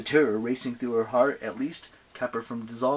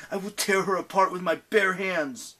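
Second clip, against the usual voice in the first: raised, forceful angry vow; angry mutter; 8 semitones higher, 4 dB louder than usual. A narrator's reading. Percy vows revenge on Gaia, muttering angrily. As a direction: press it out angrily, pitched up. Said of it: "he muttered".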